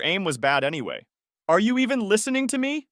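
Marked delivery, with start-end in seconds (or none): 1.5-2.9 high, loud shriek at him. A narrator's reading. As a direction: shriek it in outrage. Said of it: "she shrieked".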